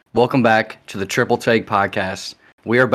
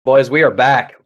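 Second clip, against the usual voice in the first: loud hyped bro yell; frat bro hype; 4 semitones higher, 11 dB louder than usual. Acted. Hyped return announcement to the boys.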